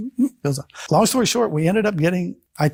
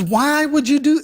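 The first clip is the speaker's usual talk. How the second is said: mock upset yell, much higher pitch; imitated yelling; 13 semitones higher, 4 dB louder than usual. Fiancée reacting to his sudden conversion, mock yelling. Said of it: "she started yelling".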